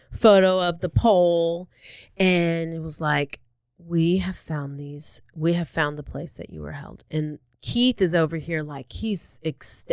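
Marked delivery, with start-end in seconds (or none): 3.8-7.0 imitating a solemn investigator; measured police confrontation. Acting police confronting suspect with photos.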